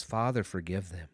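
a hushed plea for forgiveness; quiet prayer. Retold or imitated. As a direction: pray it gently, almost under your breath. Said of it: "He prays to his father".

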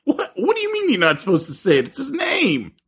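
high teasing laugh. Real, not acted. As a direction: tease through laughter.

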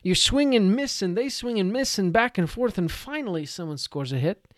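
high, loud mock blow-by-blow; mock tedious narration. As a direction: rattle off the dull back-and-forth. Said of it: "Don't go deep into".

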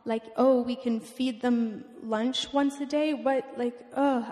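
mildly frustrated plea to God; a touch of exasperated desperation; retold crying out. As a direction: re-enact helpless, angry questioning with restraint. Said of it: "I was crying out to him".

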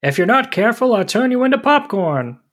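high, threatening cartoon villain; menacing boss. Voicing the peanut factory boss.

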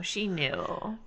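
unvoiced ominous whisper. Real, not acted. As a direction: hush it like a dark secret. Whispered dark realization.

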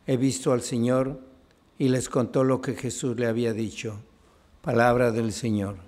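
measured liturgical reading, phrase endings dropping away; solemn Gospel reading. Real, not acted. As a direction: read scripture aloud with restraint. Gospel read aloud at Mass.

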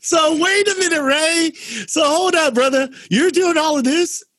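high, laughing hold-up to Ray; laughing disbelief. Real, not acted. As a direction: gasp out the surprise between laughs.

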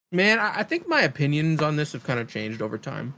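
talking through a pretzel bite; chewing while talking. Real, not acted. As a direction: mouth full, chewing. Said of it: "sorry, I'm chewing on a hard-ass pretzel bite".

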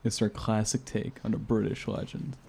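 sensual reading. Pretend. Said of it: "do you wanna try reading it sensually".

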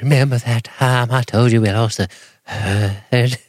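lightly mimicked shaky-voiced woman; mock her quaver a little. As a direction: put a slight wobble through it. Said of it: "In that shaky ass voice".

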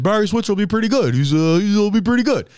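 a hint of a child talking to reporters; imitating his eight-year-old self. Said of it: "I was interviewed in Dallas where I said".

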